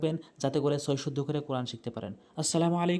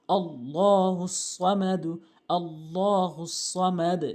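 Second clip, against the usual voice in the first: slow, measured Arabic recitation with long held vowels; Quran recitation; much slower than usual. Shown as a demonstration. Teacher reciting the sura correctly for learners, slow recitation. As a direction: recite slowly, drawing out each long syllable. Models the verse slowly.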